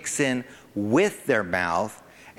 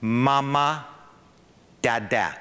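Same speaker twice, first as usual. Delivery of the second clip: put-on baby talk; slower than usual. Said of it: "they do this".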